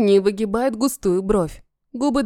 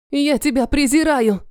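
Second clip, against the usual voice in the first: pitched-up hateful outburst; spitting contempt; 5 semitones higher than usual. Acted. Captive spits hatred at the dragon, pitched-up angry. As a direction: spit the words in his face. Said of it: "Выплёвываю в его лицо".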